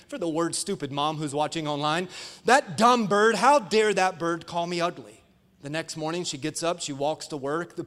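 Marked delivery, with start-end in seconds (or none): 2.4-5.2 mock indignation at a bird; frustrated. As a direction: act out exasperated outrage, punching the opening. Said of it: "She's frustrated".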